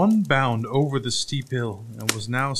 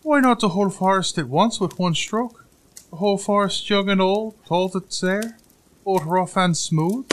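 high-pitched, loud little-man voice; boastful little tailor; 8 semitones higher, 5 dB louder than usual. A narrator's reading. Tailor outbidding the giant's order, high and boastful. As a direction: brag in a high piping voice. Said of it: "asked the little tailor".

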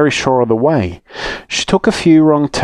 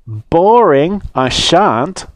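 bratty refusal; 6 semitones higher, much slower than usual. A narrator's reading. Girl refuses to write thanks.

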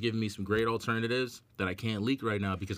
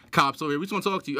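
fast, louder hammed-up cop call; mock cop; 4 semitones higher, 5 dB louder, much faster than usual. Skit of a police raid, fast mock cop. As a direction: rattle it off like cops closing in.

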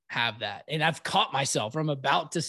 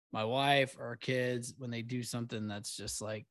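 whispered; 3 semitones lower, 8 dB quieter than usual. Real, not acted. Whispered aside.

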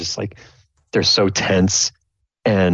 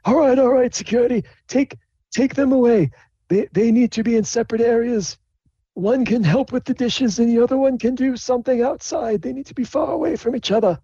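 much higher, formal scolding dean voice; high-pitched strict headmaster voice; stern dean. Acted. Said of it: "the dean's like".

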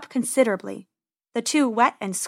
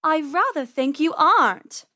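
high, haughty purr; purring cat; 6 semitones higher than usual. Acted. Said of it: "Persephone purred".

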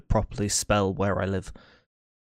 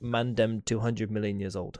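put-on London roadman accent; 5 dB quieter than usual. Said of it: "can they just be like".

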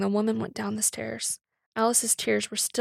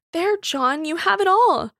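worked-up; 7 semitones higher, 6 dB louder than usual. A narrator's reading. Woman ends her upsetting confession.

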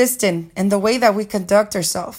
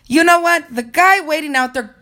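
retold, mildly annoyed and higher; 6 semitones higher than usual. Boss turns to the coordinator, mildly annoyed. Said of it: "she was a little annoyed".

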